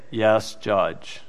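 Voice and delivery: low, very soft reply; imitated meek assent. People answering the judge to not look stupid, meek. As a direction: give in quietly, pretending to follow. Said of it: "don't want to feel like an idiot".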